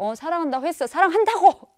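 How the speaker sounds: insistent, building to a loud high snap; mock exasperated love declaration; soulless, getting irritated. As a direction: repeat it impatiently, ending nearly shouting. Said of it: "정말 영혼 없이".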